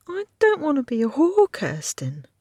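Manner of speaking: a lightly voiced girl sobbing it out; sobbing plea. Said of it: "Hinkle sobbed".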